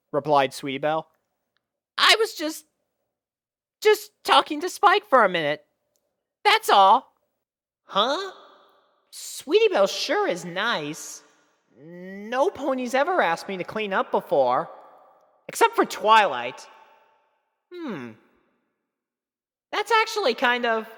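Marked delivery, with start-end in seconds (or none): 2.0-7.1 high, bashful filly voice; trying to brush it off; flustered filly. Acted. Sweetie Belle explaining to friends, high bashful voice. 7.9-20.9 put-on high, wondering boy voice; thinking aloud, touched; musing young dragon. Spike musing about Sweetie Belle, high wondering boy voice.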